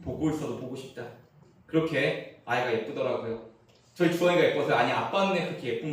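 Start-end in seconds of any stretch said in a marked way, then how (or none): 0.0-1.0 put-on 보고 있어도 보고 싶다 said softly, like gazing at a baby; tender murmur over a sleeping baby. Shown as a demonstration. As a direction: hush it, full of fondness. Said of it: "아기가 너무 예쁘니까 눈 감는 시간이 아깝다는".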